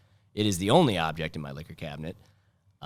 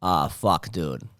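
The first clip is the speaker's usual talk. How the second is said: mock Boston accent; 4 dB louder, slower than usual. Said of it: "Boston accent".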